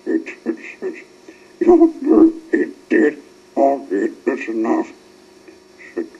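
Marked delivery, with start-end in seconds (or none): 1.6-4.9 loud captain calling order; stern captain. A narrator's reading. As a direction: shut the argument down. Captain Star cuts argument short.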